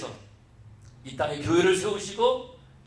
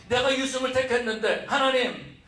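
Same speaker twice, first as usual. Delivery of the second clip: imitated grievance, pitched higher; complaining to God; 5 semitones higher than usual. Disciple asking God why prayers go unanswered, complaining. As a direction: plead a mock complaint in a raised voice. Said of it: "라고 불평한다라는 겁니다".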